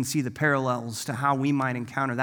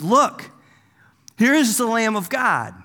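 raised, higher-pitched proclamation; exclaimed; 6 semitones higher, 5 dB louder than usual. Acted. John exclaiming as Jesus walks by, exclaimed. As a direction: call it out like an announcement. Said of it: "he exclaimed".

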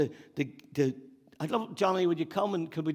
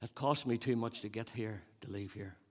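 David; 3 semitones lower, 7 dB quieter than usual. Acted. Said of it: "David is, is saying".

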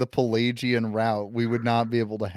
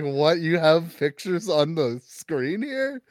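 higher, slow, amazed question; mock astonished; 6 semitones higher, slower than usual. Imagined Augustine seeing a screen, slow amazed questions. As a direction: stretch out the wonder at the screen. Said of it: "He's like".

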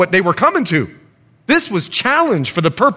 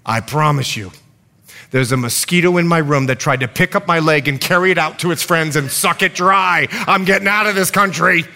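put-on lightly done New York accent; a hint of a New Yorker; 2 semitones lower than usual. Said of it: "says to us in a New York accent".

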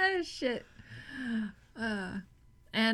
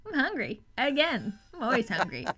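crocodile. Retold or imitated. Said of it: "what the crocodile's voice sounds like".

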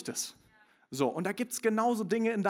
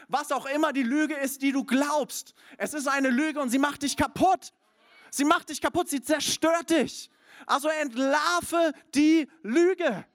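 louder, higher, slowing at the end to drive it home; preaching at full force; 9 semitones higher, 6 dB louder than usual. Acted. Preacher to congregation, rising and forceful. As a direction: preach it hard, hammer each phrase.

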